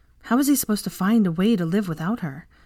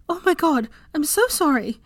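high, louder, rushed oh my God; dismayed apology; 10 semitones higher, 3 dB louder than usual. A narrator's reading. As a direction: gasp out the apology. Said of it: "she hurt him, apologizes".

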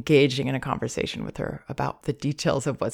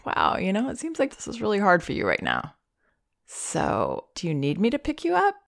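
put-on a slightly higher, quick question to baby; asking baby gently; 5 semitones higher than usual. Shown as a demonstration. Parent asking an escalating baby if she wants up, lightly higher. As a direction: ask it as a real question. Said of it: "And then I would say".

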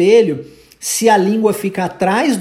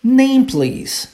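native phrasing demo; 5 semitones higher than usual. Shown as a demonstration. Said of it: "ela pergunta de que forma?".

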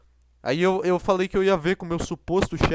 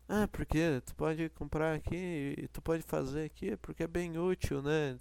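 softer, slow, listless sales pitch; unenthusiastic saleswoman; 2 semitones lower, 12 dB quieter than usual. Retold or imitated. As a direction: drone it like someone who doesn't want to be there. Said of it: "ela tava falando nesse tom ruim". (vendedora desanimada, voz baixa e arrastada)

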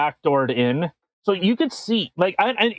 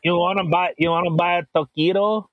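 mock Mexican accent. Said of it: "It's Mexican".

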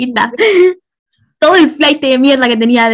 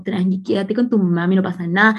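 mock empathetic doctor; 4 semitones lower, 4 dB quieter than usual. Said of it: "Tremendo cosplay de mujer empática".

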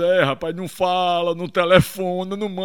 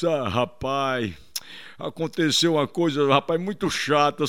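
mournful; 5 semitones lower, 4 dB quieter than usual. Acted. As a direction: drag it out, downcast. Victim tells sad story.

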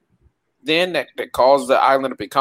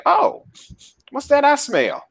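Godzilla voice; 10 semitones higher than usual. Retold or imitated.

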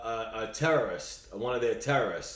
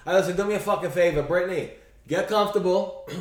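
sarcastic, raised scolding addressed to her; mock scolding; 5 semitones higher than usual. Mock scolding her in a raised voice. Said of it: "What I would say".

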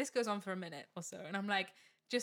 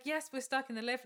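higher voice held carefully level; trying for calm; 4 semitones higher than usual. Retold or imitated. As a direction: keep the panic in while answering. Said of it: "I'm trying to be calm".

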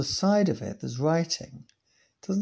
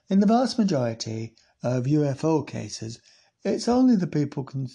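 put-on Sheffield-ish accent; 4 dB louder than usual. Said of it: "that's more like Sheffield".

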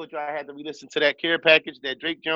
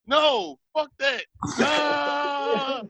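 higher-pitched retold outburst ending in a cry; retold screaming; 8 semitones higher, much slower than usual. Host reenacting his on-air blowup at Real, shouting. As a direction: spaz out, voice climbing to a yell. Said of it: "And I'm screaming".

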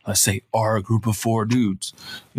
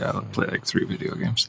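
whispered aside; 3 semitones lower, 6 dB quieter than usual. Real, not acted. Trails off into a whisper.

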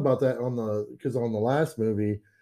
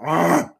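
short yelled ah; 4 semitones higher, 7 dB louder than usual. Shown as a demonstration. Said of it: "I'm just gonna go".

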